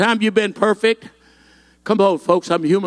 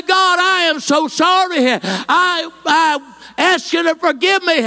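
fervent spoken prayer; 7 semitones higher than usual. Shown as a demonstration. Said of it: "and say".

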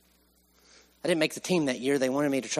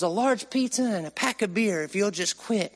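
raised-pitch drill instructor taunt; mock-yelled bribe, higher than normal talk; imitated yelling; 6 semitones higher than usual. Drill instructor bribing a recruit to quit, lightly mock yelling. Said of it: "he's in my face yelling".

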